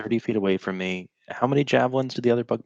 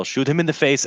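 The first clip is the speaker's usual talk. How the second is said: higher, raised-voice battle cry; in-character yell; 6 semitones higher, 4 dB louder than usual. Acted. Swashbuckler urging an ally to shoot the bugbear, yelling. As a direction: call out an urgent order. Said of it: "I would just yell".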